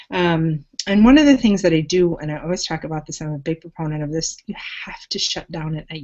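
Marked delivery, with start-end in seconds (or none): 4.5-6.0 whispered. Real, not acted. Coach urging listeners to unplug at night, whispered. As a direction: drop to a hushed whisper.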